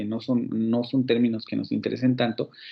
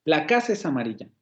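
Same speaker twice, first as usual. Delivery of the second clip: "La casa es amarilla" with the weight on "casa", falling after; mildly exclaimed, front-weighted phrase "La casa es amarilla"; exclamatory intonation; faster than usual. Shown as a demonstration. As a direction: lean on "La casa" at the start, fall through "amarilla". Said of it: "mayor peso fónico cae al principio".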